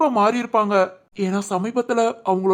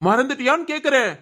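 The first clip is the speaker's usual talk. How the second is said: raised-pitch, indignant questioning; angry demand; 4 semitones higher than usual. Acted. Father confronting daughter Shivani, angry and demanding. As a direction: press the question angrily.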